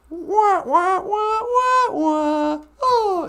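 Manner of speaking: mock alarm climbing to a squeak before a faint; hammed-up fainting Bert; panicked Bert.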